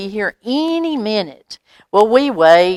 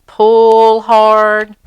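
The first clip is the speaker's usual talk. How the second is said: straining pull; 3 semitones higher, 9 dB louder than usual. A narrator's reading. Tug of war with dog.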